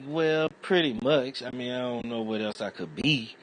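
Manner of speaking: high, casual shrug of a reply; loud, easygoing comeback to an insult; mock calm reply. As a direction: play it breezy and unbothered, voice up high. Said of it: "I'm like".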